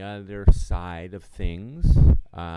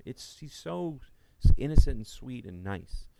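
reassuring; 5 semitones higher than usual. Retold or imitated. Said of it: "And I'm like".

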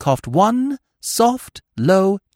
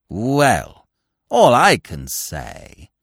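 crying out; 5 semitones lower, much slower than usual. Acted. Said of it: "he cried".

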